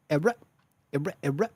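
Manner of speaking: short vocal record-scratch stutter; imitated DJ scratch. Streamer spoofing white boy speech, imitated DJ scratch. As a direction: mimic a DJ scratching with the mouth. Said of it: "imitating a D J".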